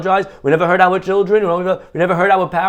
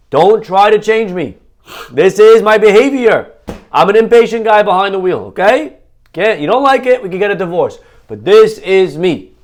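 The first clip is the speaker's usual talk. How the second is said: loud, defiant stubborn self, raised and louder; stubborn driver; 4 semitones higher, 6 dB louder than usual. Pretend. Rabbi voicing a stubborn driver who won't change, loud and defiant. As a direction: insist on yourself like a stubborn driver.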